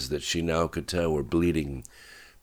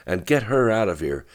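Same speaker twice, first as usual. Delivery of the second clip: urgent raised order, higher and louder; controlled narrated yell, pitched up; screamed; 5 semitones higher, 5 dB louder, faster than usual. A narrator's reading. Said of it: "he screamed".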